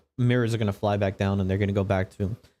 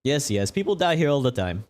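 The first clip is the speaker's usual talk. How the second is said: dismissive TV host; 6 semitones higher than usual. Acted. Interviewer brushes off the death.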